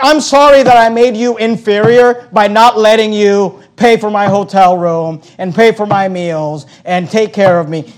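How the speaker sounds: mock apology, starting loud and easing down; sarcastic. Preacher voices Paul apologising for refusing their money, sarcastic. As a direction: apologise pointedly, as if it were no wrong. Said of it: "you can really tell his sarcasm".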